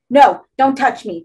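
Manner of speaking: desperate protest, drawn out; pleading. A narrator's reading. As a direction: beg them to keep their hands off. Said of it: "Cherrick pleaded".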